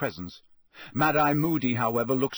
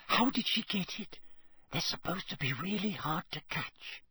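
hushed awe; 7 semitones higher, 7 dB quieter than usual. Acted. Girl marvels at unicorn.

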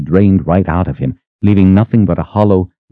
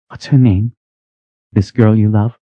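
put-on higher, prying young woman voice; jealous young woman; 5 semitones higher than usual. A narrator's reading. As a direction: ask it with jealous curiosity. Pasha jealously questions Richard.

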